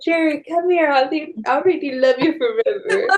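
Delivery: high-pitched mock mother voice; imitated mom. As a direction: call a child over for a story, hammed up. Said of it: "Mom's like".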